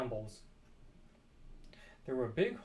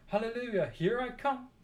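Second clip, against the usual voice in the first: loud, higher whoop of glee; joyful shout; 7 semitones higher, 4 dB louder than usual. A narrator's reading. Grandma whooping to George as she shoots up, loud and gleeful. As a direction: crow it out like a wild old woman set free.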